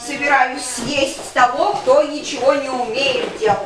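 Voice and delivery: bear voice. Acted. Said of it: "а я заколдовалась в медведя". (медленный грозный медведь)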